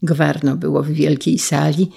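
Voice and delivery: usual speaking voice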